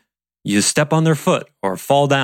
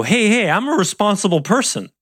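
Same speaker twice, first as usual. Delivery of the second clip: imitating a defensive colleague, much higher pitch; mock defensive; 9 semitones higher than usual. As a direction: push back as if accused, hammed up higher. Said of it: "but that's the energy".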